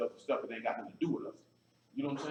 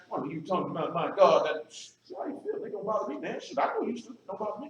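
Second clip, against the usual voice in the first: mock emotional critic; 4 semitones higher than usual. Mocking critics who get emotional over his stance, hammed-up upset voice. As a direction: mimic a touchy critic losing his cool. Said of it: "getting all emotional and crying".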